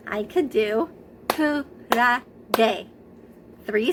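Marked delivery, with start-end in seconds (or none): 1.3-2.9 kurage clapped out. Shown as a demonstration. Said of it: "count the syllables of the word kurage".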